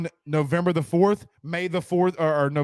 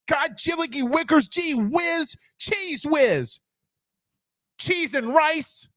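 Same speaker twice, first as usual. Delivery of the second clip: much higher, prim mock curse; mock Zach cursing; 9 semitones higher, slower than usual. Mocking cohost Zach stubbing his toe, high prim voice. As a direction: squeak out tame curses like a prim guy. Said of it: "can you imagine Zach stubbing his toe".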